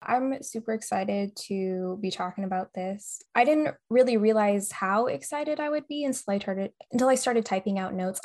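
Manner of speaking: slightly slurred speech; slurring words. Real, not acted. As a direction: let the words slur a little. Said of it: "I'm, like, slurring my words today".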